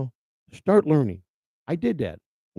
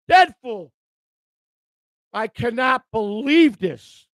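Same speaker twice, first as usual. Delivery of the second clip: amazed disbelief; 7 semitones higher, 4 dB louder, slower than usual. Real, not acted. Reacting to fifty gifted memberships.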